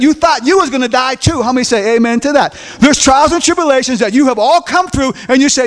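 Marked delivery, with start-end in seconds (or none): none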